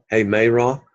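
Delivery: "Hey, Meira" opened with an audible h; rough breathing. Shown as a demonstration. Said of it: "Did you hear the rough sound?".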